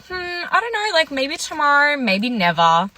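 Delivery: high, teasing hesitation that lands on a curt never; fake-pondering then a dry kiss-off; sarcastic brush-off. A girl brushing off her pushy date, sarcastically teasing. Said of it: "I meant never".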